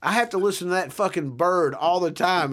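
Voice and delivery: retold rant, pushed up in pitch and volume; retold irate complaint. Neighbor complaining about the dog in a sitcom scene, mock irate. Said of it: "he goes".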